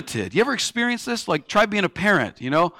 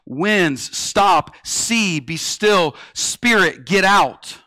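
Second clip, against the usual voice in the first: commanding; 2 semitones higher, much slower than usual. Retold or imitated. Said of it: "has authority to say".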